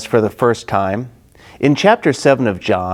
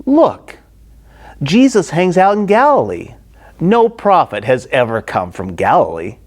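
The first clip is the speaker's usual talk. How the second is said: dismissive Pharisees; 3 semitones higher than usual. Acted.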